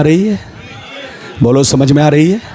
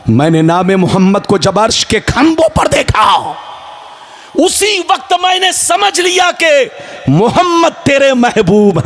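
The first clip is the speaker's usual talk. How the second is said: impassioned preaching; 3 semitones higher than usual. Acted. Preacher voices Adam pleading to Allah, fervent preaching. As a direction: throw each phrase out to the crowd as a plea. Preaches Adam's plea at full force.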